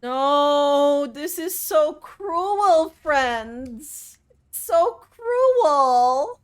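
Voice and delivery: slow, drawn-out mock complaint; mock lament. Streamer complaining to friends about the game, slow. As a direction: moan it theatrically. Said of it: "We're very melodramatic today".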